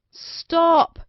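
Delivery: sudden high loud shout; cry out. Acted. King shouting to stop princess's wish mid-sentence. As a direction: cut her off sharply, shouting. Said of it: "cried the king".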